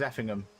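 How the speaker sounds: Effingham as EFF-ing-um; Effingham said her way. Shown as a demonstration. Asked by chat, streamer says EFF-ing-um. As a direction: say Effingham like Birmingham. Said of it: "how do you say that one then".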